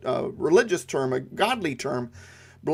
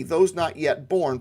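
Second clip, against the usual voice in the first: slowed emphasis; slower than usual. Shown as a demonstration. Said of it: "Here, the emphasis is on posterity".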